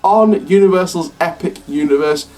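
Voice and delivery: breathless, rushing the words; out of breath. Real, not acted. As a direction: talk while winded. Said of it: "I'm out of breath".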